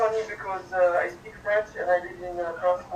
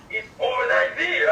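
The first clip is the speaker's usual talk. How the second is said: French accent; 10 semitones higher, 3 dB louder than usual. Shown as a demonstration. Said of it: "I do this accent".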